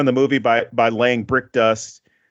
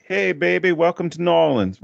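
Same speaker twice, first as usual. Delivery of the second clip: put-on New Orleans accent; 5 semitones higher than usual. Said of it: "I can't do the accent".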